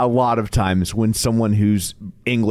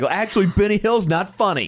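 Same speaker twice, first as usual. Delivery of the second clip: mock-haughty British correction, higher pitched; super arrogant; 6 semitones higher than usual. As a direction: tease with a snooty put-on voice. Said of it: "like, super arrogant".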